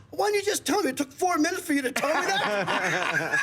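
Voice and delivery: high-pitched comic exasperation; retold exasperation. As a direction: deliver the punchline as an incredulous complaint. Retelling Bobby's exasperated punchline reply.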